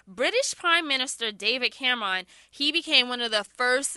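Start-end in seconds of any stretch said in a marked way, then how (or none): 1.7-2.3 Cameron as KAM-rahn, two syllables with a broad final ah; Harlem pronunciation. Real, not acted. Host naming the British prime minister, Harlem pronunciation. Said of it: "it's a Harlem thing".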